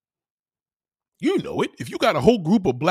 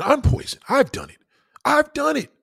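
pitched way up and loud; high yelled confession; 12 semitones higher, 5 dB louder than usual. Acted. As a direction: shriek it like a confession. Comic yelling confession.

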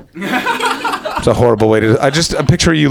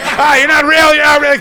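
very high, raised-voice freak-out; Malcolm Tucker; 13 semitones higher, 3 dB louder than usual. Acted. Doctor confronting a Dalek, as high, frantic Malcolm Tucker. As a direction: play the Doctor in high-pitched disbelief. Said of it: "wanna see him as Malcolm Tucker".

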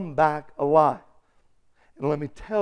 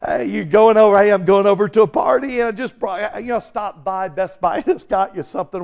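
quick, higher casual party talk, starting loud; party-goer chatter; 4 semitones higher, 6 dB louder, faster than usual. Acted. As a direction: chat eagerly like someone off to a party. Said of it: "And go".

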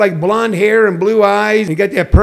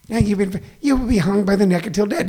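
soft, tiny mock judge; hurried little-voiced death sentence; squeaky-voiced judge; 6 dB quieter, faster than usual. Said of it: "Not people who speak like this".

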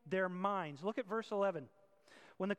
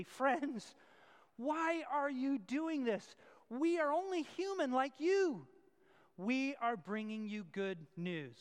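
urgent plea; 4 semitones higher, 4 dB louder, slower than usual. Acted. Paul pleading with the crowd.

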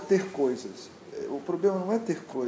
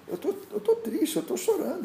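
much higher, laughing through a mock sob; mock crying king. The storyteller's weeping king, mock crying and laughing. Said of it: "Ele chorava".

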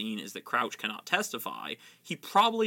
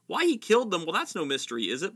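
pompous bluster, higher; 5 semitones higher, faster than usual. Acted. Fudge dismissing Dumbledore, light bluster. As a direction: brush it off with mild pomp. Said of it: "blustered Fudge".

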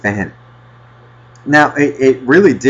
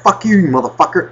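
mildly heated curse, pitched up; retold angry cursing; 5 semitones higher, faster than usual. Repeating the curse at the fan, mildly angry. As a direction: toss off a mock curse. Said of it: "you're cursing at it before you throw it".

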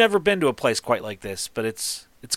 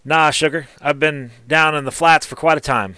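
higher and louder, a folksy female gnome; gnome smith's voice; 4 semitones higher, 6 dB louder than usual. Acted. Gnome smith sizing up the mountain gnome, higher and louder. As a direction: greet him with a twang, pitched up.

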